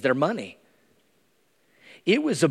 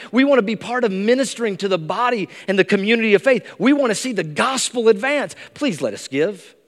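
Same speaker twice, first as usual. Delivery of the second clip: earnest pleading, rising higher on each want; eager begging; 5 semitones higher than usual. Pretend. Macedonian churches begging Paul, eager and earnest. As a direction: beg to be allowed to help. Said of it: "No, it was like".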